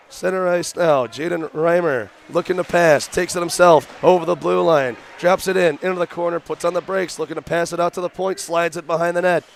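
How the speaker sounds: rapid, punchy hockey call; play-by-play. Real, not acted. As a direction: call the rush up the ice.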